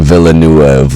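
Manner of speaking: "Villeneuve" stretched to vil-uh-NOO-uv; over-syllabled mispronunciation. Shown as a demonstration. Host showing what he isn't saying, extra-syllable vil-uh-NOO-uv for "Villeneuve". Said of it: "adding, like, fucking seventeen syllables".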